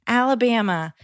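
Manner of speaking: put-on spelling slowly in a Minnesota accent; drawn-out Minnesota accent spelling. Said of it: "she has that Minnesota accent".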